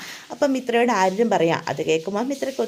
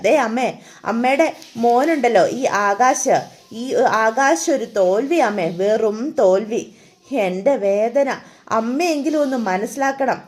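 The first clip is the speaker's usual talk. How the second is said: put-on drunken lament; 4 dB louder than usual. Drunk son pleads with mother.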